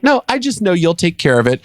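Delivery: high, airy imitation of unconcern; mock nonchalance. Woman leaving the financial trouble to others, imitated as nonchalant. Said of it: "like, nonchalant about".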